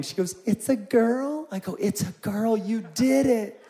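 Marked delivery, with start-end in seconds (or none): 0.5-1.5 high, slow, rising disbelief; wife's tearful question. Retold or imitated. Wife crying during the birth, high incredulous question. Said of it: "She starts crying". 1.7-3.6 higher, louder, drawn-out delight; retold excited congratulation. Husband congratulating wife on the birth, excited.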